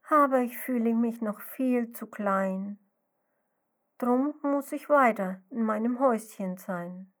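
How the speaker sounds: a mild wistful sigh through the words; sighing lament. Acted. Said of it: "Und die kleine Schnecke seufzt".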